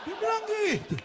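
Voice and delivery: high laughing tag line. Real, not acted. Comedian cracking up at own joke, laughing. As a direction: laugh through the punchline.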